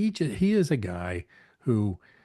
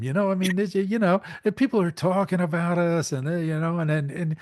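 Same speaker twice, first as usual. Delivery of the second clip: still worked up; 10 semitones higher, 7 dB louder than usual. Retold or imitated. Still in the raised imitation.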